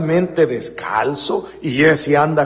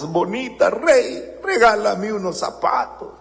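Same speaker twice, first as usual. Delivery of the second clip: mild mock plea. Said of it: "empieza a gritarle".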